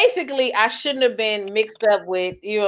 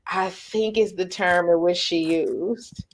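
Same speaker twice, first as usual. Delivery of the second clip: softer, whispered tail; hushed aside; 5 dB quieter than usual. Real, not acted. Attributing the quoted term, hushed aside. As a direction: drop to a breathy whisper.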